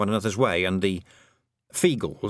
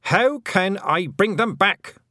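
retaken question; 10 semitones higher, 6 dB louder, slower than usual. Shown as a demonstration. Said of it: "Um, Miss Tick said".

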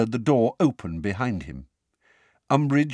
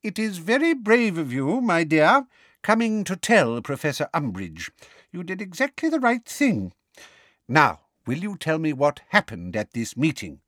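higher, lightly put-on kind father; would-be fatherly; 7 semitones higher than usual. A narrator's reading. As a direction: try to sound kind and fatherly. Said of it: "what he evidently imagined was a kind and fatherly look".

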